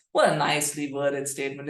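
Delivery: dry mock praise, tongue in cheek; scornful fake compliment; sarcastic. Real, not acted. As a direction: praise it while meaning the opposite. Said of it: "with all the sarcasm in the world".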